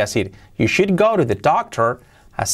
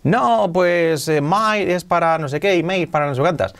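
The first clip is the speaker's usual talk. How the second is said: lightly mocked purist, pitched up; higher, drawling mock objection; mimicking purists; 5 semitones higher than usual. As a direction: play a fussy purist explaining vaguely. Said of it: "Los puristas te dirán".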